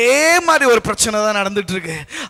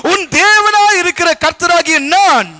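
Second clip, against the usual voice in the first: raised, ringing sermon delivery; preaching; 5 semitones higher, 5 dB louder than usual. Acted. Preacher announcing God's message to the congregation, preaching loudly. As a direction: proclaim God's promise to the congregation.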